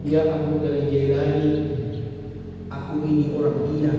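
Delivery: put-on confessing drunk man. Drunk man confesses to the sheikh, high and half-sung. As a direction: lament your sins, rising to a cry.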